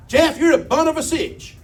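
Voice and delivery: high-pitched mock holler of an angry mama; imitated holler. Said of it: "and she'd holler".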